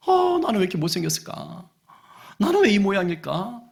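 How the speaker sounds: lightly acted self-pity; mock dejection. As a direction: lament like the gloomy duckling. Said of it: "하면서 우울해, 슬퍼, 괴로워".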